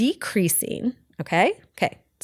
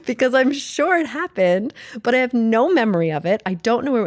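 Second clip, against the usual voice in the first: retold protest; 5 semitones higher, 4 dB louder than usual. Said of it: "And I'm like".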